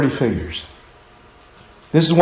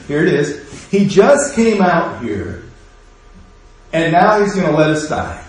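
whiny grumbler. Retold or imitated. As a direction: grumble it under your breath. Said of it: "one of them starts going".

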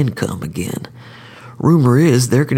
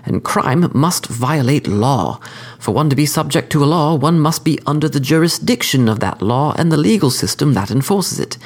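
higher, refined courteous assassin; cordial sophisticated killer; 4 semitones higher than usual. Acted. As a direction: lecture the court, smooth and polite. Skidmire explains his reasoning.

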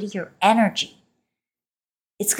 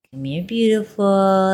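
coaxing; 2 semitones higher than usual. Acted. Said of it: "a shy cat to come over".

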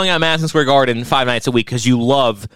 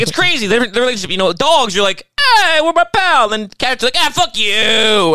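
higher excited rambling host voice; mock Joe Rogan; 10 semitones higher, 3 dB louder than usual. Impersonating Rogan's animal bit, high and excited. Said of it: "then he's like".

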